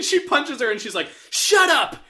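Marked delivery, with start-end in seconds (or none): 1.3-2.0 high, hammed-up shouted order; hammed-up yelled command; mock scream. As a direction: bark it like a B-movie heavy. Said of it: "she screams at her".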